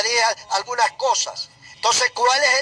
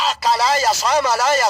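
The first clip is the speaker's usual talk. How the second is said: a burst of ecstatic prayer syllables, a touch louder; speaking in tongues; 3 dB louder than usual. Acted. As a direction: let the tongues spill out mid-sermon. Preacher breaks into tongues. (hablando en lenguas)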